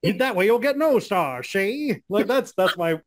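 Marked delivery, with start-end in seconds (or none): 0.0-2.0 lightly voiced 1940s mobster with no power; a hint of a tough-guy gangster threatening, see; Dave Meltzer impression. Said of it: "that's my Dave Meltzer impression".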